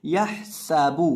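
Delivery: यह सबू slowly, with a sharp whistled s; whistling seen. Shown as a demonstration. Teacher modelling seen, whistling s in यह सबू. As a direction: make the s in सबू whistle, ha clear in यह सबू. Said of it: "सीन में सीटी पैदा करनी है".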